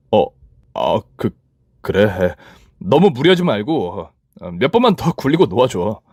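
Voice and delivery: put-on boyfriend nervously agreeing; hesitant boyfriend. (낮고 머뭇거리는 남자친구)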